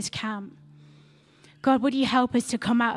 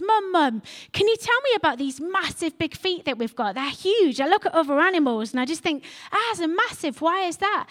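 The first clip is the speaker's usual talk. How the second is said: put-on baby camel voice; 4 semitones higher than usual. Baby camel asks his mum.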